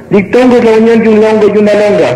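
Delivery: acted schoolboy answer. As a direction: recite it like a pupil bluffing in class. Pupil blurts answers in joke. (alumno recitando, tono agudo)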